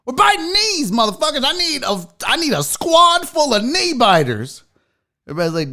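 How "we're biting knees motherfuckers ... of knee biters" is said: mock-fierce coach outburst; hammed-up fiery team speech; Dan Campbell. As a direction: demand it like a crazed coach. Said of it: "And then Dan's like".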